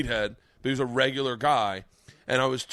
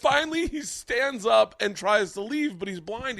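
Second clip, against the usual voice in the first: excited storytelling; 12 semitones higher, 8 dB louder than usual. Real, not acted. Telling climax in raised voice.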